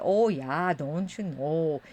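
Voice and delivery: drawn-out Minnesota vowels; slow, mild Minnesota twang. Shown as a demonstration. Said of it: "do the Minnesota twang".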